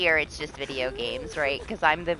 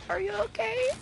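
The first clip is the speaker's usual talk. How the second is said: retold concern. Retold concern about her morning voice.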